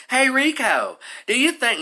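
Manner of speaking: high-pitched mock Southern accent; weird southern accent. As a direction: imitate a young woman's Southern accent. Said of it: "now with this weird southern accent".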